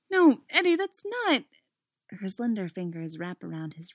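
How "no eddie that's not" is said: high, urgent protest; high-pitched, flustered objection; flustered girl. A narrator's reading. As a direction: cut in high, then break off. Chrissy voiced, protesting again.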